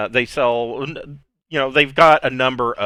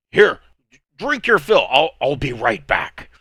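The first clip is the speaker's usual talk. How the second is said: put-on higher, louder hurried barkeep in a heavy accent; hasty bartender; 4 semitones higher, 5 dB louder than usual. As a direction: rush it out before running off.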